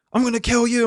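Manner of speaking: high, loud hammed-up threat; hammed-up kill threat; mock threat. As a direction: yell it like a hot-head losing it. Mock hot-headed threat.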